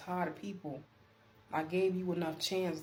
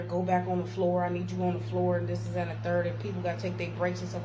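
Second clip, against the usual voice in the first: louder, insistent mock supervisor; demanding; 5 dB louder than usual. Supervisor sending worker back to cover breaks, demanding. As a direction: imitate a boss giving orders. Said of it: "she was just demanding".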